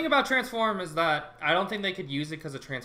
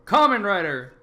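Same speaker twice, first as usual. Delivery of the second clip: loud dramatic announcement; 7 dB louder than usual. Pretend. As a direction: proclaim the title loudly. Dramatic announcement of show name.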